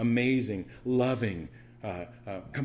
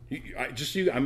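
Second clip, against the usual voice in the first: normal talking voice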